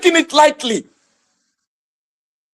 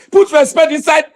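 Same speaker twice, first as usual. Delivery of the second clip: mocking shout; 4 semitones higher than usual. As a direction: fling the phrase back with scorn. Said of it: "they will not be saying".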